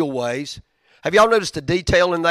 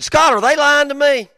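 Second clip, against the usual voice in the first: high, loud incredulous plea; high mock-pleading call to a friend; incredulous question; 10 dB louder than usual. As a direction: sound truly disbelieving. Quoting himself calling Scott.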